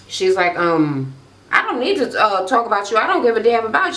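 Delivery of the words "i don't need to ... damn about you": high-pitched mock argument; dismissive, raised-pitch quarrel voice; catty retort. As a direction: act out a sassy comeback. Acting out reality-show quarrel.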